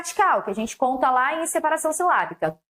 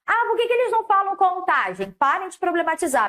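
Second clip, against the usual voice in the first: higher-pitched mock protest; imitating an exasperated student, pitched up at first; mock student complaint; 5 semitones higher than usual. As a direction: lightly act out a pupil's grumbling objection.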